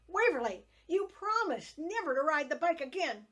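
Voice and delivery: loud, high scolding shout; angry shouting. A narrator's reading. Mother catching her daughter on the bike, angry loud shout. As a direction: shout the broken promise at her.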